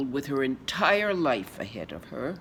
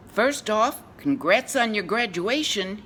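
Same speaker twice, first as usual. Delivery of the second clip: high, loud congratulating voice; projected, pitched-up stage congratulations; 8 semitones higher, 7 dB louder than usual. Acted. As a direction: offer congratulations loudly and high. Acted quote of lover's congratulations.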